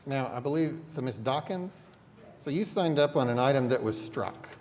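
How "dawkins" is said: ordinary talk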